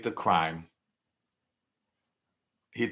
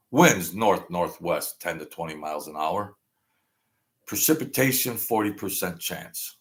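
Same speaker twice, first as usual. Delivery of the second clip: weather report; 3 semitones lower than usual. Pretend. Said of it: "That's how the weather is".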